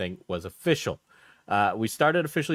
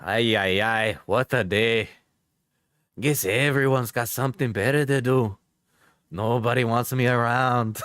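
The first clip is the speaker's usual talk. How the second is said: Latino Alex. Acted. Streamer reading an ex's messages on request, Latino accent. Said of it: "Do a Latino Alex".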